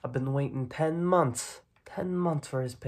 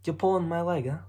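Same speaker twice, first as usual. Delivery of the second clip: louder, disbelieving snap; indignant; 4 semitones higher, 7 dB louder, faster than usual. Acted. Mob boss scolding the kid over coins, indignant. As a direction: call out the joke sharply.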